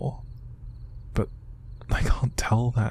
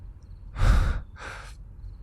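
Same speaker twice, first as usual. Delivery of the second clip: sharp, breathy exhale; heavy sigh. Acted. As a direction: breathe out hard to hold back tears. Fighting back tears.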